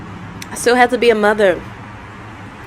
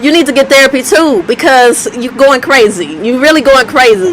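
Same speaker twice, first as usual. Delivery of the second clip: teasing disbelief; 3 semitones higher than usual. Retold or imitated. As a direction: tease her like she lost it. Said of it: "I was like".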